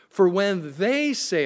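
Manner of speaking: "they" drawn out in a slow phrase; stress on THEY. Real, not acted. Preacher reading a verse about non-believers, "they" stressed. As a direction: lean on the word "they" and stretch it. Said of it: "I emphasize the word they".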